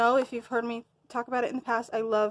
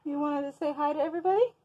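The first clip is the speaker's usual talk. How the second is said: higher, quick coaxing question; pet talk; 5 semitones higher, faster than usual. Real, not acted. Asking the pet that keeps interrupting, in higher pet talk. Talking to her noisy pet.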